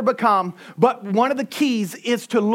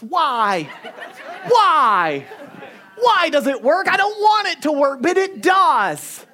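exasperated; 6 semitones higher, slower than usual. Real, not acted. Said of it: "exasperated about yelling working".

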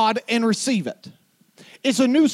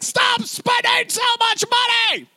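very high shouted order; granddad screaming; 12 semitones higher than usual. Retold or imitated. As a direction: scream the command. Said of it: "your granddaddy screamed at you".

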